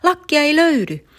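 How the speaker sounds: high, loud panicky wail; a kid shrieking that he won't swim; boy refusing to swim without his lucky cap, shrieking; panicked shrieking. Acted. Tarmo panics over lost cap.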